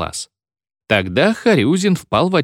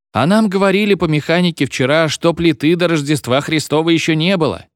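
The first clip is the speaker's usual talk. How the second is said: a pupil pipes up with a raised squeak; squeaky pupil voice; 6 semitones higher than usual. A narrator's reading. Pupil corrects the teacher, squeaky high voice. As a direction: squeak it out higher. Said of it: "пискнул голос".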